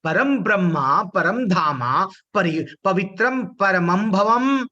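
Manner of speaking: slow, drawn-out Sanskrit verse recitation; श्लोक पाठ. Acted. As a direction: recite the shloka slowly, stretching the long syllables. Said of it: "क्या करे अर्जुन?". (धीमा, खींचकर श्लोक पाठ)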